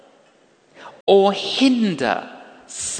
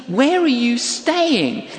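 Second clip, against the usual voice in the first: concerned question; 5 semitones higher, slower than usual. Retold or imitated. Voicing helpful stranger's question.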